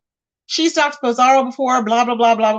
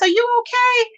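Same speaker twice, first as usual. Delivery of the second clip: incredulous; 10 semitones higher than usual. Real, not acted. Incredulous reply to viewer.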